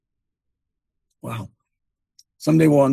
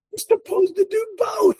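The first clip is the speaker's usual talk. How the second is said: high shout, driving the point home. Real, not acted.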